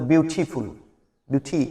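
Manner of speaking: British "বিউটিফুল" with a crisp aspirated t; teacher contrasts the British "beautiful"; British accent. Shown as a demonstration. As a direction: say "বিউটিফুল" the British way, a clear hard t. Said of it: "আর যদি British স্টাইলে বলা হতো".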